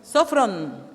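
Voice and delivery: Sofron with a loud first syllable; stress on first O of Sofron. Shown as a demonstration. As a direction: punch SO in Sofron, then fall. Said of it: "con acento en la primera O".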